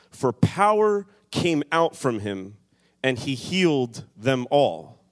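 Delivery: measured, ringing Bible reading; scripture reading. Acted. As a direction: read it out like holy writ to the room. Reads scripture passage aloud.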